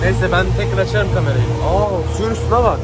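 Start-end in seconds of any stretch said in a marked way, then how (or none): 1.4-2.8 amazed. Real, not acted. Amazed at the water.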